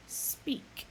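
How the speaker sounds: breathy whispered order; whispered command. Acted. Deep Thought commands.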